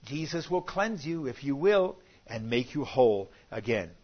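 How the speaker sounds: ordinary talk, nothing marked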